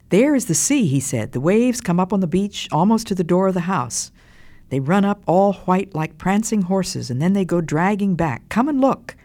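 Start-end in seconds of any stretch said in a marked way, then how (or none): 0.1-0.9 high, louder, eager exclamation; excited child. A narrator's reading. First child excited at the window. 1.3-9.2 higher, louder, eager storytelling voice; excited child. A narrator's reading. First child excited at the window.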